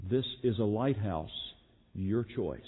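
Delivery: lighthouse keeper calmly settling it; calm reply. Retold or imitated. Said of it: "replied once again calmly".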